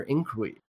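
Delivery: "inquiry" swallowed to roughly "ink-ee"; stumbled pronunciation. Real, not acted. Host reading a headline, "inquiry" garbled as "ink-ee". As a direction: fumble "inquiry", losing its middle sound. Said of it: "Why can't I say?".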